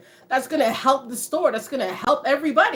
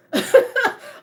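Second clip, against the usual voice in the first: loud high laugh; 11 semitones higher, 5 dB louder than usual. Real, not acted. Laughing at the conformity quote.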